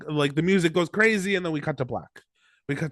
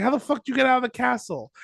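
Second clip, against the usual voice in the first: incredulous Dunk; 7 semitones higher, faster than usual. Retold or imitated. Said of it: "Dunk's like".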